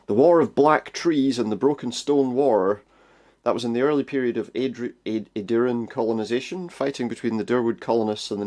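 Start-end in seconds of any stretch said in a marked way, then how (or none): 0.1-2.8 slow, louder proud speaker; game character voice. Acted. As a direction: announce it like an old soldier.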